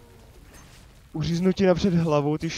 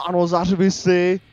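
loud taunt; 2 semitones higher, 8 dB louder than usual. Real, not acted. Taunting roaring enemy.

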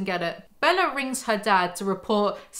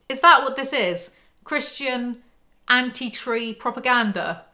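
incredulous; 3 semitones higher, 3 dB louder than usual. Real, not acted. Mock-outraged rhetorical questions.

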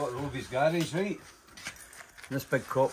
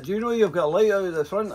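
higher and louder, a put-on officious bobby; mock copper telling the driver about his light; English cop; 9 semitones higher, 6 dB louder than usual. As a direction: point out the broken light like a prim policeman. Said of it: "So he went like".

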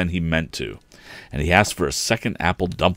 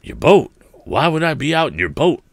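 surprised; 10 semitones higher, 6 dB louder than usual. A narrator's reading. Engineer surprised at question.

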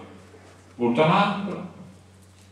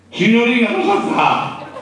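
calling out; 8 semitones higher, 7 dB louder than usual. Retold or imitated. Officer calling out to the girl.

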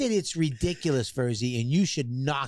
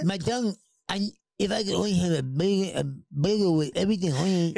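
swollen tongue. Retold or imitated. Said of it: "my tongue is too big for my mouth".

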